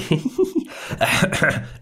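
unconvincing coughing snicker; old man's cough. Acted. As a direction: laugh passed off as a cough. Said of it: "Det er min gamle mands hoste".

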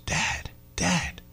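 imitating a small child's whisper; hushed, breathy whisper to a sleeper. Young son whispers at the bedside to wake his dad, whispered. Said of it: "he whispers".

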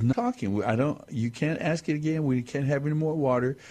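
a hint of a stern grandpa; lightly voiced mock warning; grandpa scolding. Grandpa warns the boy of a spanking, lightly stern. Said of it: "and he says".

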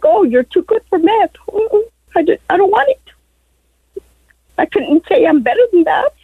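tearful, voice breaking; crying. Real, not acted. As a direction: speak through tears. Caller cries over homeless past.

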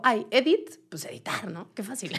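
imitating a careless translator, half-whispered; mock breezy translator. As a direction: toss it off like it's nothing.

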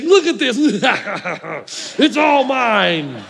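teasing, laughing grandma; gloating laugh. Retold or imitated. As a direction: laugh through it, drawn out and slow. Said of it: "she'd just say".

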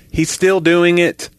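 high, drawn-out mock whine; mock complaint. Woman tattling on the parrot, drawn-out complaint.

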